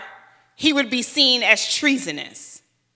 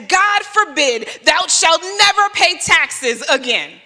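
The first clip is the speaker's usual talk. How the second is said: mock biblical decree; 3 semitones higher, slower than usual. Hoped-for mock decree from Jesus.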